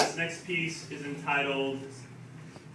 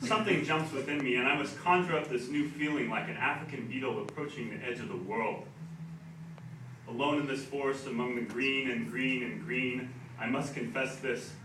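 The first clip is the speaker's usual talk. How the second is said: wry spoken-word reading; comic poem read with deliberate pauses; poetry recital. Acted. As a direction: deliver the poem in measured phrases, letting endings drop.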